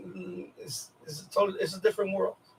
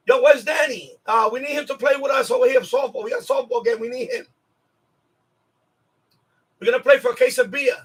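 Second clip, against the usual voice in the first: mock eager shout from the neighbors, pitch jumping up; calling out for Danny to join the game; calling him over to play; 3 semitones higher than usual. Neighbors recruiting Danny for softball, eager call.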